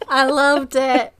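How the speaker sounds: high, loud and slow, thrilled; delighted. Real, not acted. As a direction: gush with delight. Delighted reaction to accent.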